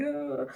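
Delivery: high-pitched mock wail; brief imitation of a child's sob; imitated crying. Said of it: "then he'd burst into tears".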